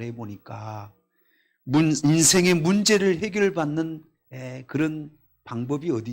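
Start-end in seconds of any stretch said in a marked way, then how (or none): none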